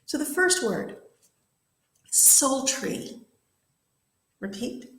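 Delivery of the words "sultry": "sultry" said carefully as a clear model; model pronunciation. Shown as a demonstration. Teacher models a word for students to repeat, careful pronunciation. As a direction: say "sultry" distinctly for learners to copy. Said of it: "I'm gonna say the word".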